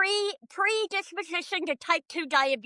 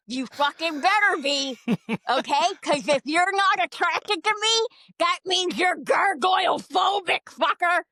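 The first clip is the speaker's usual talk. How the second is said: mock angry shout. Mock accusation at Nick.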